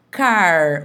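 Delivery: CAR said alone, drawn out with its final R; separated syllable. Shown as a demonstration. Teacher showing R at syllable end, isolated syllable. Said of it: "eu separei a sílaba".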